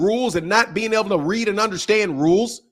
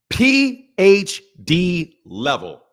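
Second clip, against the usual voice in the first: pompous boast; much slower than usual. Pretend. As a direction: savour each letter like a title. Boasting of his reading level.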